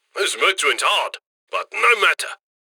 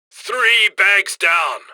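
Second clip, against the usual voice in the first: excited call-out; much slower than usual. Acted. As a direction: call it out like a proud tally. Handler counting secured loot.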